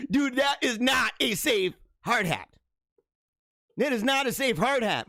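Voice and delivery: real amused disbelief; laughing disbelief. Real, not acted. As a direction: still laughing while saying it. Laughing at clip.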